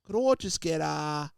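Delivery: high, loud country-town Australian greeting; country Australian accent. Retold or imitated. Ordering coffee in a little country town, rural Australian accent. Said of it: "past Wollongong to little country town".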